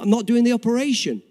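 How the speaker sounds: imitating a doctor putting his foot down; firm refusal. Surgeon now spells out his refusal.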